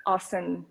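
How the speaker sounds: asan ending on the N; asan, last vowel left off; silent final A. Shown as a demonstration. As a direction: say "asan" without a closing A. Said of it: "because it's always silent".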